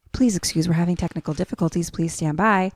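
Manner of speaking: even, subdued stand-by notice; imitated TV announcement. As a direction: recite it like a broadcast apology.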